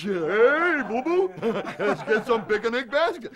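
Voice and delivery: loud, high-pitched cartoon bear; cartoon bear impression. Storyteller playing the bear out for lunch, cartoon bear voice. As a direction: boom it out like a hungry cartoon bear.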